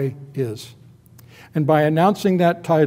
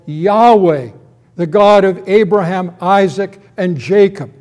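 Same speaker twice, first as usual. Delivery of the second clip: loud, raised, deliberate divine declaration; God proclaiming; 3 semitones higher, 5 dB louder than usual. Acted. God calling Moses back at the burning bush, proclaiming. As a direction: proclaim it with commanding authority. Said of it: "God appearing to him and saying".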